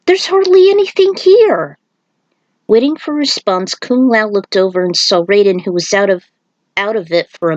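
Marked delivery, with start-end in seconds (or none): 0.1-1.8 skeptical. Acted. Skeptical monk doubts barren beach.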